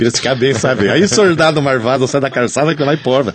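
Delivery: put-on playful thick caipira accent from inland São Paulo; lightly hammed caipira accent. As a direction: roll it out like a country caipira from Piracicaba. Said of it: "sotaque bem carregado, assim, do interior de São Paulo".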